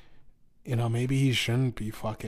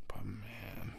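whisper; 11 dB quieter than usual. Real, not acted. Whispered aside.

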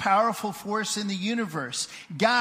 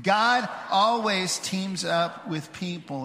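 slow, sure group recitation, more connected; confident recitation; slower than usual. Shown as a demonstration. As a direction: say it like you know it by heart. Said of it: "like we know what it says".

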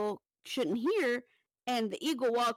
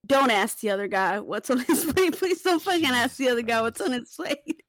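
pleading look; 7 dB louder than usual. Retold or imitated. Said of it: "the look on their face is like".

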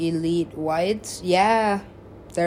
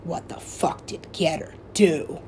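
느리게 속삭이듯 묻기; breathy slow hush of disbelief; slow whispered quote; slower than usual. Retold or imitated. Retold asking about the DJ.

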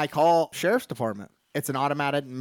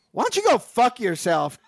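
higher, louder, through laughter; laughing insult; 7 semitones higher, 3 dB louder than usual. Retold or imitated. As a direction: toss it off with a laugh.

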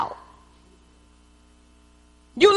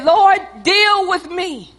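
slow plea; slower than usual. Real, not acted. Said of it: "I mean, Lord".

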